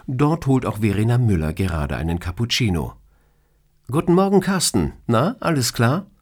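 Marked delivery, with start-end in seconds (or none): 3.9-6.1 cheery boss voice. Acted. Colleague greets cheerfully at coffee machine.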